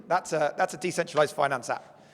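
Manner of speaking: hoarse, strained voice; losing voice. Real, not acted. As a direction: voice giving out, hoarse. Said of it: "I'm losing my voice".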